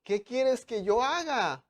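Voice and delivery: high, loud, slow trembling cry to the Lord; Paul trembling and afraid, crying out to the Lord; trembling, fearful plea. Acted. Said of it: "Él temblando y temoroso dijo".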